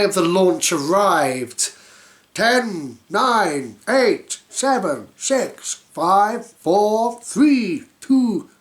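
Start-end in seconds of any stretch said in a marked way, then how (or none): 2.3-8.5 rising excited countdown, louder. Acted. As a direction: count down to launch. Launch countdown.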